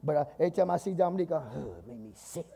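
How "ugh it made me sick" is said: disgusted. Pretend. Acted disgust at Dominique.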